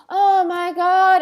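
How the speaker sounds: hammed-up offended Elsa; mock angry Elsa. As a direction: pretend Elsa fuming. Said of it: "she'd go".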